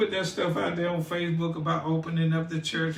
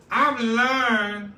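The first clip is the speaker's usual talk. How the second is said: pastor preacher tone; 3 semitones higher than usual. Acted. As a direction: preach it to the congregation. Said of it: "so in my pastor preacher, uh, tone".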